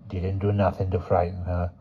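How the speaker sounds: put-on quiet old crone; old woman voice.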